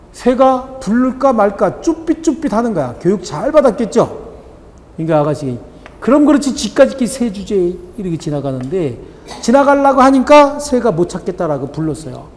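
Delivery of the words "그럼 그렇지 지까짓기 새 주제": higher smug scoff; smug gloating. Acted. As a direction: sneer that the bird knows its place. Woman gloats at tamed bird.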